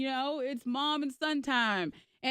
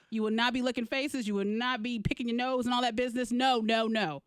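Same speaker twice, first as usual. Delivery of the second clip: retold stern scolding; firm parental telling-off; dressing-down. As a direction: scold a small child, listing the rules. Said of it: "You dressed him down".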